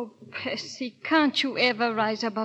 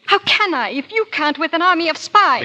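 exasperated protest; 7 semitones higher, 10 dB louder than usual. Acted. Exasperated refusal to spy.

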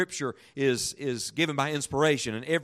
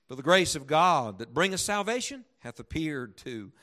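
slow, emphatic Bible reading; declaimed scripture, with deliberate pauses; solemn scripture reading; 2 semitones higher, slower than usual. Acted. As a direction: read it out with weight, drawing out key words. Reads Scripture aloud emphatically.

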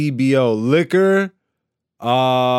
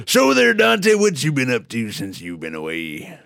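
hillbilly host voice; host the show as a hick; redneck voice. Acted. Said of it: "you're doing this voice".

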